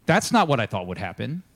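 low, firm mock indignation; mad Naaman. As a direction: voice a put-out, offended man. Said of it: "he's, like, all mad about it".

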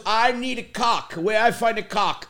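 put-on slow Italian-English accent; imitated Italian dad. Dad hunting for caulk in store, imitated Italian accent. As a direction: insist slowly in dad's Italian accent. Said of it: "And he goes".

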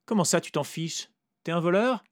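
high, loud suspicious question; Vera suspicious. A narrator's reading. Vera suspects the narrator is a thief, high voice. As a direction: accuse him lightly.

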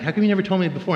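pitched well up in gentle surprise; surprised question. Retold or imitated. Father asking his son why he never spoke, high gentle surprise.

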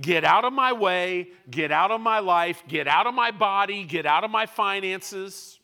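loud, forceful command; preacher rebuking sickness; commanding rebuke. Acted. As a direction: order it out, building each line. Preacher rebukes loudly, repeated commands.

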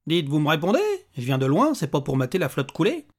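a hint of a pushy little man; impatient little stranger. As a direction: press him for a reply.

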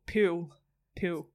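"pool" as a Queenslander says it; imitated Queensland accent. Host teasing his guest about how she said it, imitated Queensland accent. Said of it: "you've still got your Queensland accent".

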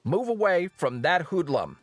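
Chancellor's urgent demand; shouted order. Acted. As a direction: call it out as a stern command. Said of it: "the Chancellor screams out".

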